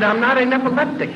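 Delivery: high, loud, eager question; retold excited checking. Patient checking the good news with neurosurgeon, retold excitement. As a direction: seek confirmation in hammed-up excitement.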